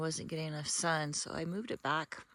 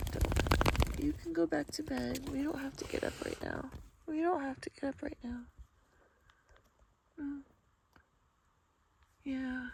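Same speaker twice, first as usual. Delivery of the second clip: higher-pitched pet-owner voice; talking to dogs; 8 semitones higher than usual. Real, not acted. Soothing her dogs in bed.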